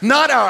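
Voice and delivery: not hit loud and high; punched not. Acted. Preacher knocking down excuses, punching not.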